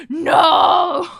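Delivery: high, drawn-out shout; loud protest. Real, not acted. Streamer rejecting chat's comparison, loud protesting shout.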